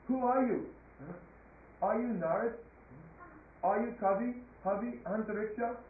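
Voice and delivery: a touch of astonishment in each question; amazed king. Acted. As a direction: wonder who this great sage is. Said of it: "and he became amazed".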